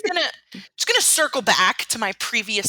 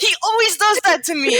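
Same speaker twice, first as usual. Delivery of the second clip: mock whine; 7 semitones higher, 4 dB louder than usual. Fan lamenting favorite player.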